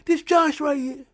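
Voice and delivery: high, slow, exaggerated crooning; mock tender cradling. The speaker cradling Jey's head, high slow mock crooning. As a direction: coo it like cradling an infant.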